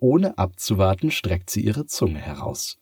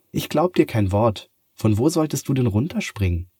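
put-on brisk, higher voice of a doubting girl, quick at the end; 5 semitones higher, 4 dB louder than usual. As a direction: push back, she won't be fooled. Sophia challenges the cat. (zweifelndes Mädchen, etwas höher und schneller)

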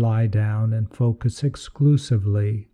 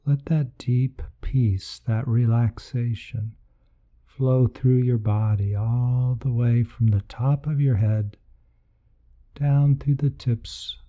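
guided meditation. Acted. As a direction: lead them gently into relaxation.

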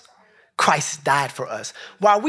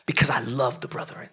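hushed unvoiced whisper on the scripture line; whispered quote; 4 semitones lower, 6 dB quieter than usual. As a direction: drop to a whisper for the verse. Quoting scripture, voice drops to whisper.

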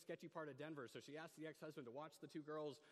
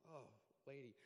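inner exasperation; 6 dB quieter than usual. Retold or imitated. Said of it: "in my head going".

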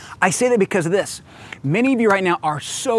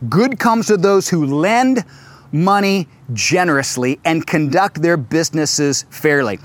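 scripture reading. Shown as a demonstration. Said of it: "Look, Psalm one twelve, verse five".

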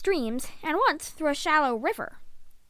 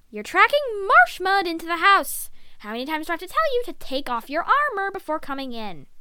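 lightly raised, exasperated nagging; scolding mother; 3 semitones higher, 4 dB louder than usual. Acted. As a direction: tell off a muddy son. Mother scolds her muddy son.

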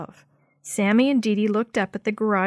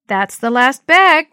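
loud, slow call across the garage; shouted; 4 semitones higher, 10 dB louder, slower than usual. A narrator's reading. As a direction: shout it out to the others. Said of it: "Maria shouted".

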